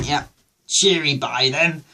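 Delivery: mock-posh English goodbye; breezy put-on upper-class sign-off; lightly imitated posh farewell; posh accent. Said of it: "I talk poshly".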